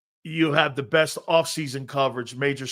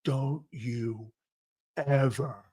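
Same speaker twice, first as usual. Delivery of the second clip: stern godmother; 3 semitones lower, 5 dB quieter, much slower than usual. Retold or imitated. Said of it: "She's looking at me going".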